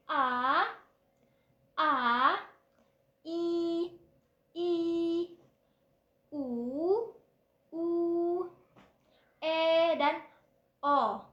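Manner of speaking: "A" with mouth open three fingers wide, each vowel held clear; vowel drill. Shown as a demonstration. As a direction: drill A, I, U, E, O slowly and loudly. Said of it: "mulutnya dibuka sebanyak tiga jari". (latihan vokal A, I, U, E, O dengan mulut terbuka lebar)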